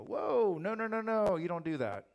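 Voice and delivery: mock-panicked loud objection; alarmed refusal. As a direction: cut them off in hammed-up alarm. Angels stop someone bowing to them.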